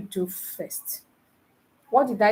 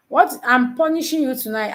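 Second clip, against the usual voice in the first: surprised; 3 semitones higher, 4 dB louder than usual. Real, not acted. Mock surprise at her answer.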